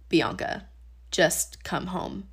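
soft, slow and tender call to come home; gentle voice of God. Retold or imitated. God tenderly calling her home at night, soft and slow. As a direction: say it slowly and softly, like a loving invitation.

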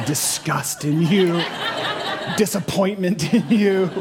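amused delivery through a laugh; chuckling at the cat joke; laughing through words. Real, not acted. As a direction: let the laugh carry the words. Joke about cats.

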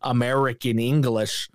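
slow, lightly put-on American accent; a hint of Hemsworth's flat American accent, slowly; mock American accent. Reviewer imitating Hemsworth's American accent in the film, slowly. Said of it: "Chris Hemsworth talking like this".

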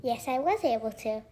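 pinched-nose voice; pinching nose. Acted. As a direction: talk while pinching your nose. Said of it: "Why are you pinching your nose and talking".

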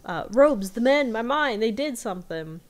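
a retold, half-acted panicky outburst; freaking out. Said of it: "he starts freaking out".

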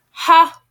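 a little sister's derisive ha; scoffing laugh. A narrator's reading. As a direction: bark a single laugh of disbelief. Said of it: "Blythe laughed".

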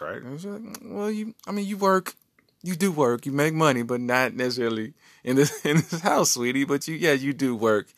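high, sugary wife voice; wife's voice. Retold or imitated. Wife humoring her husband about his hard work, high, sweet voice. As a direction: pitch it up like a sweet, patronizing wife.

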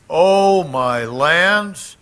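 loud high-pitched oh, my lands; mock astonished exclaim. Real, not acted. Preacher exclaiming to the congregation, loud and surprised. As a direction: exclaim it like a scandalized grandmother.

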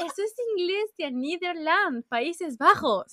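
high and slow, spelling it out; exasperated insistence. Real, not acted. Correcting her friend about Netherlands, high and slow. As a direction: drag out Países Bajos in disbelief.

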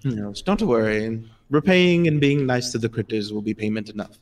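lightly voiced gentle gnome. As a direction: reassure kindly as the gnome. Gnome declines repayment.

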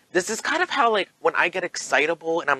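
high-pitched, excited chatter; a touch of eager excitability; excitable tone. Shown as a demonstration. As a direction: show how you talk when worked up. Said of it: "excitable tone".

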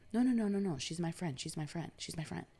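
insistent protest. Retold or imitated. Man brushes her hand away, insisting.

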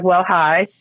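lightly put-on polite white girl greeting; a hint of white-girl politeness. Greeting a stranger who walked in, lightly put-on white girl voice. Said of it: "Had to put my white girl voice on".

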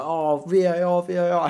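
high, loud demand for VAR; hammed-up player begging the ref; mock angry appeal. Impersonating the tackler appealing to the ref, mock angry. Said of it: "the guy who made the tackle was like".

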